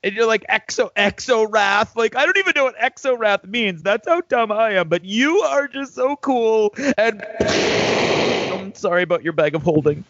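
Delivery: gushing admirer. Acted. Sidekick flattering the knight he adores, gushing. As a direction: gush with drawn-out praise, then apologise sheepishly.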